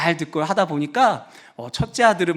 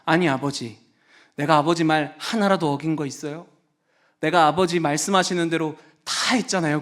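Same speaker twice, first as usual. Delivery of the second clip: lightly aggrieved son. Acted. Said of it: "잔뜩 뿔이 나가지고".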